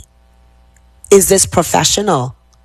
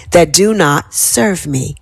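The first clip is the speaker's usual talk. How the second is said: slow affirmation. Shown as a demonstration. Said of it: "Exhale here".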